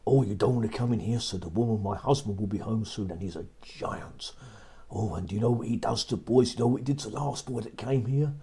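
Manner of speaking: quick, urgent giant's wife; warning giant's wife. Acted. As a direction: hurry the boy off with a warning. Giant's wife warns Jack.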